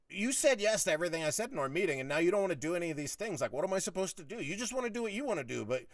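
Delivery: high-pitched, heated complaint; worked-up re-enactment of a grievance; retold exasperated argument. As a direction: argue it out as if he were there.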